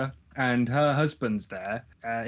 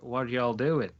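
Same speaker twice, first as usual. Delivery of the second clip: imitating a Texan woman's drawl; Texan accent; slower than usual. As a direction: put on a mock Texan accent. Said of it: "Do the accent".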